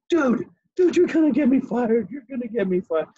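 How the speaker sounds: high-pitched mock panic, easing off at the end; frantic high pleading, acted out; panicked friend. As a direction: imitate a buddy about to have a heart attack. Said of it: "about to have a heart attack".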